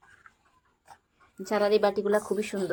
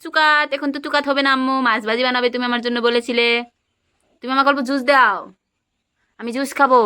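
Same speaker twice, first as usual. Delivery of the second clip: higher, pleading pretend-kid voice; playing the hungry child; 5 semitones higher, 7 dB louder than usual. Mother pretends to be the child asking her toddler for juice, playful pleading. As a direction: beg the little cook for food.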